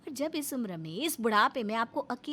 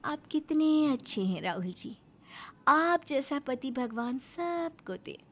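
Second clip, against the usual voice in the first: sweet praise; slower than usual. Acted. Wife sweetly praises husband.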